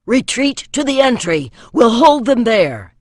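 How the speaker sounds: loud, high shouted order; gasped command. A narrator's reading. Archer ordering defenders back to the gatehouse, shouting. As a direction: bark the retreat over the fighting. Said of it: "he gasped".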